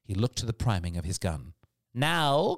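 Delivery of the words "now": higher-pitched sharp call; captain's cry. A narrator's reading. Captain commanding the marksman, crying out. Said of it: "cried the captain".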